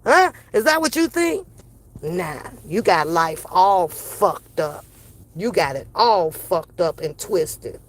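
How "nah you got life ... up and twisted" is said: slow dismissive put-down. Real, not acted.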